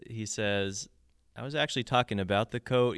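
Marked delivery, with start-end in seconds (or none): 1.3-3.0 rushed, words squeezed together; quick, crammed-in delivery. Retold or imitated. Host quoting the singer's crammed lyric, said quickly. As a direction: cram every word into the bar. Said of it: "he throws all those words in there quickly".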